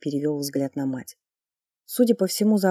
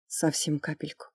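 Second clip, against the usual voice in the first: guilty; 6 dB quieter than usual. Acted. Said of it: "виновато призналась она".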